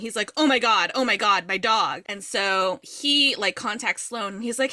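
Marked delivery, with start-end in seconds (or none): 0.4-2.0 mock panic.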